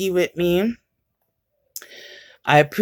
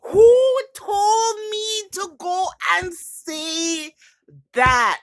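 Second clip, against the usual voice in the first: higher, slow laugh-cry; 12 semitones higher, slower than usual. Real, not acted. Vlogger mortified by her own words, laugh-crying. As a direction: wail through embarrassed laughter.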